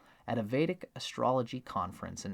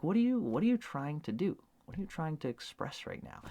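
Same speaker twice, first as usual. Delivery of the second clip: confused tribesman; 5 semitones higher than usual. Retold or imitated. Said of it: "he'll be like".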